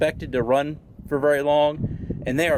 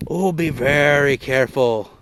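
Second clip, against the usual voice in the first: nature documentary; 4 dB louder than usual. Pretend. Hushed warning in wildlife parody.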